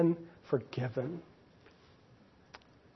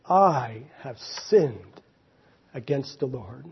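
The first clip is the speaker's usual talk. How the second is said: confessing; 3 semitones lower, slower than usual. Acted. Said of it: "he cries out to Nathan".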